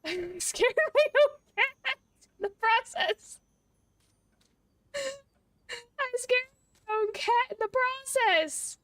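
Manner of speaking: half-crying laughter at her own squeal; laughing squeaky. Real, not acted. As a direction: giggle it out breathlessly high. Laughing after scaring her cat.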